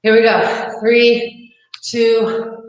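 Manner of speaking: calling out the count; loud countdown. Real, not acted. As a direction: shout the count to the class. Instructor counting down loudly.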